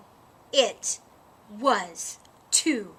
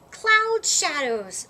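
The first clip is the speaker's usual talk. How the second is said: slow, dreamy; 4 semitones higher, 6 dB louder, slower than usual. A narrator's reading. Each animal names its idea.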